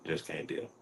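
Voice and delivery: whispered dismissal. Acted. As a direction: breathe it out, voiceless. Repeats the line as a whisper.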